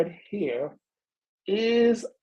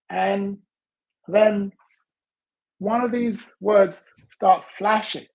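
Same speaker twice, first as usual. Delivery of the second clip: usual speaking voice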